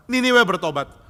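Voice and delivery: loud, high indignant reply; acted outrage at the news; angry. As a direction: spit out the grievance. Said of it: "marah sampai mati".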